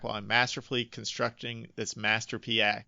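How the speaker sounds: last word "masterpiece" bent into "master-pee-a"; pseudo-French masterpiece. Shown as a demonstration. Quoting the lyric to show the whack rhyme, pseudo-French "masterpiece". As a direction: let the end of "masterpiece" open into "pee-a", mock French. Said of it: "with a pseudo-French accent on masterpiece".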